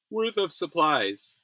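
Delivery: slow, stretched words mid-yawn. Real, not acted. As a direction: talk through a yawn. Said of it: "I, I don't know why I'm yawning so much".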